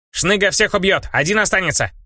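boastful goblin. Acted. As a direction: puff up like a little goblin.

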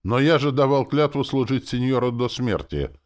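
high, loud plaintive protest; moaning protest. A narrator's reading. Soldier torn over his oath, moaning. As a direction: groan it out in dismay. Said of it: "простонал солдат".

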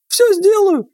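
very high, squeaky little mouse voice. Acted. Mouse reassures the men before his mission, in a very high squeaky voice. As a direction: squeak it out like a tiny talking mouse.

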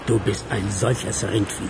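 low, slow scornful insult; slow contempt. Acted. Partner scorns his blunder, slow and low in contempt. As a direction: drag out the insult with disdain.

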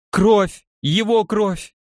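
истеричный крик, срывается вверх; кричит в панике, высоко и громко; frantic shouting hostage taker. Acted. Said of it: "истерично закричала она". (истерично кричит о крови)

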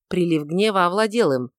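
ordinary delivery

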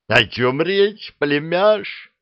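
high, slow, cheerful beast voice; glad agreement. A narrator's reading. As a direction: agree happily like a merry monster. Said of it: "радостно согласилась правая голова".

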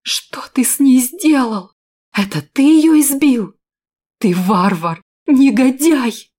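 high, loud outraged yell; furious shout. A narrator's reading. Heroine confronting Valker over the beaten woman, furious shout. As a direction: scream accusations at him. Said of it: "закричала".

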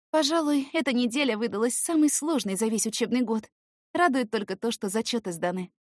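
high light teasing voice; playful girl chatting. Acted. Girl's voice continues.

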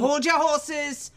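loud, high, stretched-out rebuff; bossy shout to hang on; impatient call. Acted. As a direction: call out over the objection, drawing it out. Brushing off the interruption.

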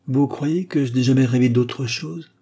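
a father's voice trembling with held-back feeling; voice vibrating with emotion. Acted. Father pleading with his son, emotional voice. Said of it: "sa voix vibrant d'émotion".

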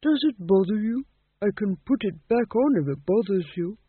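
put-on eager-to-help old king; helpful. A narrator's reading. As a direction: offer help amiably as an old ghost. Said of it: "said the old ghost helpfully".

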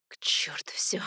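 a desperate whisper. A narrator's reading. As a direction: hiss it out on no voice, deciding. Reckless decision whispered. (отчаянный шёпот)

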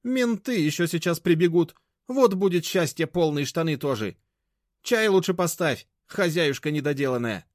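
high, loud, contemptuous; loud high-pitched sarcasm; sarcastic mockery. A narrator's reading. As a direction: ridicule the useless housewife. Grandmother mocking Mashka.

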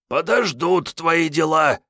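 high, flat-out demand; categorical. Acted. Kiryay ordering Sergey to escort him, categorical. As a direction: allow no argument.

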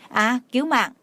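understated anguished plea; pained plea. Acted. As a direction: call out for mercy through the pain. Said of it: "đau khổ gọi cầu xin tha thứ".

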